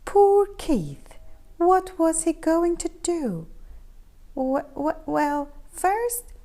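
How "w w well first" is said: stammering. Acted. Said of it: "he stammered".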